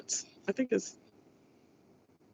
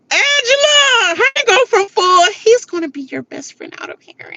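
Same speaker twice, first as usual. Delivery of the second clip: high, laughing mock outrage at Angela; mock disbelief, laughing; 13 semitones higher, 3 dB louder than usual. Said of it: "I was cracking up laughing".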